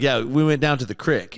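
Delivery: crick with a short country i; grandmother's crick. Retold or imitated. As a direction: casually quote grandmother saying crick for creek. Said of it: "my grandmother says crick".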